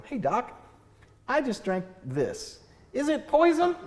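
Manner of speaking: high, nervous patient asking the doctor; worried patient. Retold or imitated. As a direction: play the anxious patient, voice climbing. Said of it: "would you rather go into a doctor and go".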